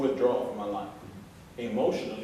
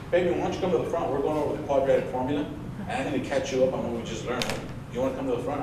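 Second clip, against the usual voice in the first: mild imitation of a coaxing teacher; teacher calling him up; 4 dB louder, faster than usual. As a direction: call him up to the board, coaxing.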